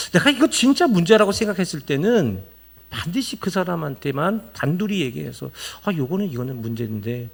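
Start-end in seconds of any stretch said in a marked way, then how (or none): 5.8-7.3 polite request. Shown as a demonstration. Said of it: "라고 공손하게 이야기하세요".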